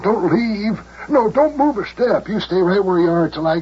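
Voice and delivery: 高声急切地恳求; 急得嗓音往上蹿; 激动哀求. Acted. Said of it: "The mayor seems awfully excited".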